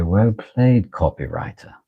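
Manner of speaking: put-on lightly done British accent, teasing; playful bad British accent for a wife; rubbish British accent. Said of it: "my rubbish accent makes her giggle".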